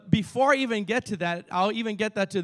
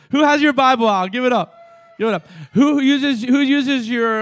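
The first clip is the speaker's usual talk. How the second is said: calling out; 5 semitones higher, 9 dB louder than usual. Acted. Calling out to congregation.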